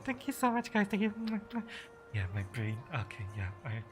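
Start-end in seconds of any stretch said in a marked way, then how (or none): 2.1-3.8 worn-out, fading voice; tired, trailing off; exhausted. Real, not acted. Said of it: "my brain is actually running out of juice".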